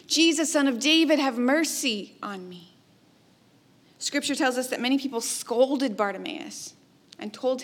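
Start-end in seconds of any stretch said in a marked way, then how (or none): 0.1-2.8 the second plea pushed out harder; crying out louder. Retold or imitated. Blind Bartimaeus calling to Jesus again, louder plea. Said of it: "Bartimaeus cries out".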